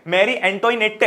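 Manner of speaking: मैरी एंटोइनेटे said slowly, letter by letter, with a sounded final "te"; spelling pronunciation. Shown as a demonstration. Teacher shows students his memory trick, saying एंटोइनेटे as spelled. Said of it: "मैं कैसे याद करता था".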